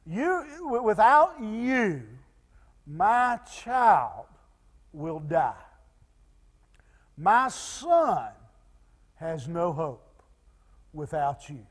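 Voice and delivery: grave, understated desperation; pleading. Retold or imitated. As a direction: imitate a father begging for his child. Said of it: "he's pleading with, with, with Jesus".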